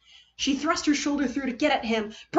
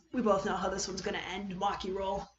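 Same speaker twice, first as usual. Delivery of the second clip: resigned softness; 6 dB quieter than usual. Acted. Kaito resigned, calming her.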